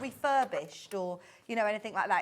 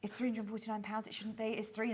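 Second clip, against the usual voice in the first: softer, hushed aside; leaning in to whisper; 2 semitones lower, 7 dB quieter than usual. Pretend. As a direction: drop the voice like sharing a secret. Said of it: "I should whisper about this".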